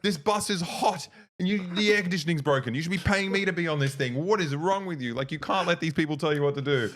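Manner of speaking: hammed-up grandmother berating the inspector; grandma ranting. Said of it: "my grandma was like".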